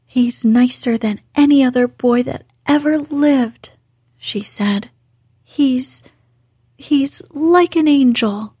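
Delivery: put-on a girl angrily defending her friend, heated; heated defence. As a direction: defend Dickon with flashing eyes. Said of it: "Mary's eyes flashed fire".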